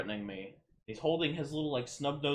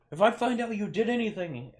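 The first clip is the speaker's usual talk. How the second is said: higher, louder warning voice; armed dad warning the teen as he leaves; retold threat; 8 semitones higher, 6 dB louder than usual. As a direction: lay down the threat. Dad's parting threat.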